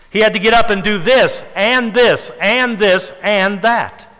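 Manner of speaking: each "and" stretched and punched, piling up the list; stress on "and". Shown as a demonstration. Preacher listing all Abraham had to do, stressed "and". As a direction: lean hard on every "and". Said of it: "put in there to slow down".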